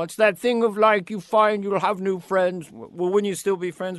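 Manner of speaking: lightly voiced boss expounding a thesis; Lorne. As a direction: imitate a producer musing aloud. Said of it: "Anytime Lauren would do a thesis".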